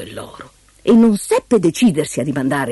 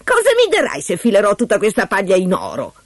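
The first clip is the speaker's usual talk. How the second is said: higher-pitched little man's voice; bargaining dwarf; 6 semitones higher than usual. Acted. (voce acuta da ometto che contratta)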